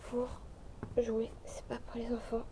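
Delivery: hushed warning whisper; whispered caution to the viewers. Real, not acted.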